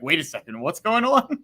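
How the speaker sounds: playfully baffled, voice lifting sharply; mock bewilderment. Acting out his reaction to Twitter.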